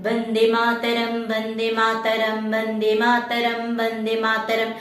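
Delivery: low monotone repeated chant; flat voice. Shown as a demonstration. Teacher contrasting with shrill, flat low chant. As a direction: repeat it low on one unchanging note. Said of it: "That is a flat voice".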